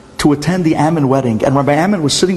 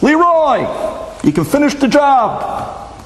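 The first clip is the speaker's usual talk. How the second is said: screaming out; 11 semitones higher, slower than usual. Retold or imitated. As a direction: scream it across to the tractor. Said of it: "screams out".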